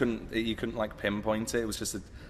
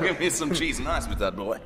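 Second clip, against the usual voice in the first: laughing, lightly voiced Southern American; American accent; 4 semitones higher, 4 dB louder than usual. Bassist copies the Southern American line, laughing. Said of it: "your best American accent".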